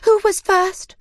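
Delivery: high, loud crowd cry; excited shout. A narrator's reading. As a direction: shout out eagerly. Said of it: "they shouted".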